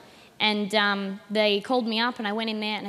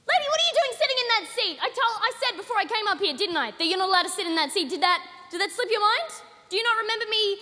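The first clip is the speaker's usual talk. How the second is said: much higher, bossy unhinged comedian; insane comic on stage; 7 semitones higher, faster than usual. Acted. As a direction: boss the audience around like a madwoman on stage. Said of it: "an impression of an insane person".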